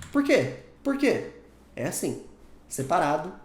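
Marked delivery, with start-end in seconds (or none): 0.1-1.3 higher, insistent "why? why?"; pressing why. Shown as a demonstration. Teacher voicing someone who keeps asking why, higher and insistent. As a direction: push them for an answer.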